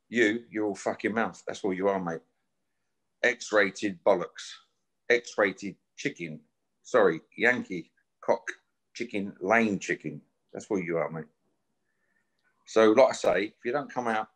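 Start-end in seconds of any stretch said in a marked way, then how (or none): 3.2-10.2 slow, drawn-out scornful jeer; slow contemptuous name-calling; slow mocking insult. Real, not acted. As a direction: spell out each insult slowly. Mocking rival as chicken.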